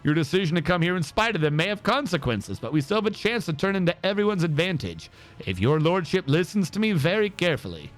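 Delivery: lightly voiced formal lords; voiced game nobles. Streamer voicing Rogue Trader lords, lightly formal. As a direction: read the courtly threats with gravity. Reads the game's lord and advisers.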